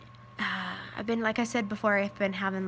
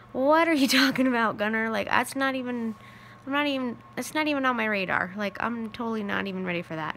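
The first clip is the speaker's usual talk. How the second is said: louder, laughing disbelief, then rattled off fast; incredulous; 2 semitones higher, 4 dB louder, faster than usual. Retold or imitated. Mom laughing off her son's remarriage idea, incredulous. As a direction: laugh it off, flustered and quick.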